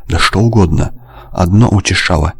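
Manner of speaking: ordinary delivery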